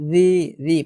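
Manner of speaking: রি as a light "thee"; tongue on upper teeth for রি; soft dh in রি; thin soft dhal. Shown as a demonstration. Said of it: "পাতলা করে".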